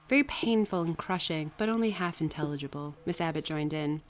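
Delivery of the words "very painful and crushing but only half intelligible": measured audiobook reading; story narration. A narrator's reading. Reader telling Jane's story to listeners, measured narration. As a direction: read it out like a classic novel. Reads the novel aloud.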